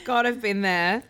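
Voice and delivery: gentle knowing laugh; kind gentle laugh. Real, not acted. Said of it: "Sorry, I'm not laughing at you".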